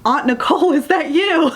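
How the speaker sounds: a hint of a small child calling out; little niece finding her aunt, lightly childlike; little girl. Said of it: "the little girl comes down and is like".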